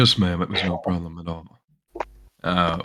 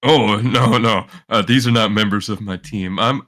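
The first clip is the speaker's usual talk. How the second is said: loud protest; 4 semitones higher, 5 dB louder than usual. Acted. Player protests in character.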